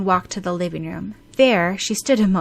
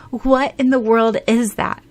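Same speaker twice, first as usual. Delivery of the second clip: baffled; 4 semitones higher, 6 dB louder than usual. Acted. Shocked at the text.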